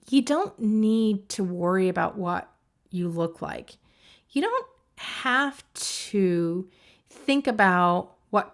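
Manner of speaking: slow, even self-talk with long pauses; drawn-out words, evenly delivered; measured monotone. Shown as a demonstration. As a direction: spell it out slowly and evenly. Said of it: "in kind of a monotone way".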